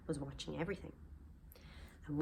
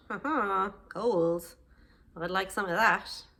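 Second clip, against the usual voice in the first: louder, gloating villain laugh and line; sneaky gloating thief; 6 dB louder, slower than usual. Acted. Sid gloating as he finds the golden harp. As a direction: gloat greedily over the gold.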